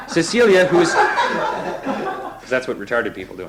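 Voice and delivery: slow words through laughter; can't stop giggling; laughing. Real, not acted. Reader laughing through an aside, giggly.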